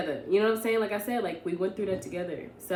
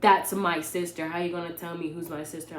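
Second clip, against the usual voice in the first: insistent retort; 4 dB louder than usual. Retold or imitated. Boyfriend insists in retold argument.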